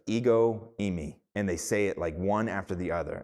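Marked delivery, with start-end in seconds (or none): 0.1-1.1 Ego, eimi said as EH-go EE-mee, with a slight pause between; Greek phrase. Shown as a demonstration. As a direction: clear demo of ego eimi. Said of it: "It's like".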